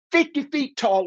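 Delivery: high, emphatic "fifty" with a falling end; emphatic insistence. Real, not acted. Repeats claim after don't lie.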